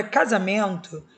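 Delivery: casamento said loud, the syllable men stressed; stressed syllable demo. Shown as a demonstration. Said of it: "o men é a tônica".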